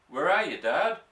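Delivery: calling out. A narrator's reading. Boy calling in the dark.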